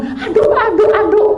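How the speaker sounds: high-pitched mock panic; bingung, panik. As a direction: squeal for the towel in a fluster. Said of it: "saya bingung". (pekikan panik minta handuk)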